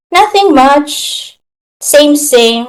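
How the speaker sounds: a drawn-out, lightly voiced coworker reply, slow; bored stock reply. Imitating a shy coworker's rote stand-up update, slow and lightly voiced. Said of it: "she would say the same thing".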